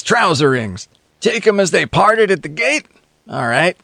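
lightly voiced sardonic passenger; a hint of a cynical tramp; cynical drifter. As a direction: needle the others with a sly grin. Cynical passenger tells his version.

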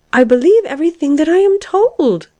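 very high, insistent claim; persistent protest. A narrator's reading. Caterpillar contradicting the nettled lark, persisting. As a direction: insist in a high-pitched character voice. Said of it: "persisted the caterpillar".

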